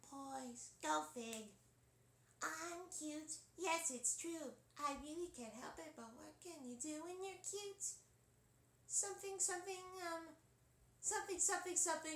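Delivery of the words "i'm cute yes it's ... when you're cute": put-on cartoon girl voice, higher, quieter. Showing the Dot Warner voice, speaking high in the throat: Dot Warner voice. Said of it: "So this is Dot Warner now".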